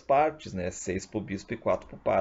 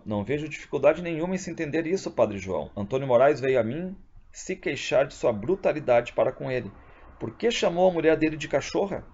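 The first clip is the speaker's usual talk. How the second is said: bispo severo; 5 semitones higher than usual. Acted. Bispo repreende o padre, voz encenada.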